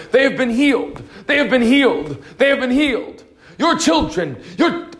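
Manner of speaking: mock the chant while laughing; laughing imitation. Preacher laughing as he imitates the repeated declaration. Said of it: "They just repeat it over and over".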